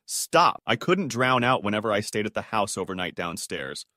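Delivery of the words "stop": higher, mildly raised cry; a contained, higher-pitched yell; restrained scream. A narrator's reading. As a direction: read her scream as a restrained exclamation. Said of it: "her screaming".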